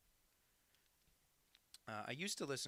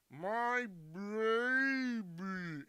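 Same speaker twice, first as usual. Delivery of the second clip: deep voice filter; 10 semitones higher, 9 dB louder, much slower than usual. Shown as a demonstration. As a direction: fake pitch-shifted voice filter. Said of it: "you just do that at full speed".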